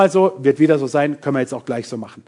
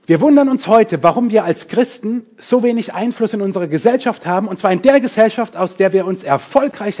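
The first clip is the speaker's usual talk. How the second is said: preaching with force; 5 semitones higher, 4 dB louder than usual. Real, not acted.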